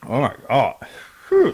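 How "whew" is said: Crackhead John voice. Acted. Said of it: "Crackhead John impersonation".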